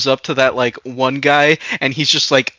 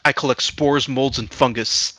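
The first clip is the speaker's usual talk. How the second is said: imitating a deadpan reply; dead serious, understated delivery; 3 dB quieter than usual. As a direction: list it evenly, without reaction. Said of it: "deadpan serious".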